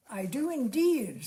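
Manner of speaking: sincere and firm; mean every word of it; earnest. Acted. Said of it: "said Elizabeth earnestly".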